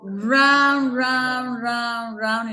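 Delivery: stretched "round" over and over, pitch held up; slow, chanting "round"s stepping down at the end; drawn-out repetition. Real, not acted. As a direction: draw out each "round" like endless circling. Retelling a long circling detour.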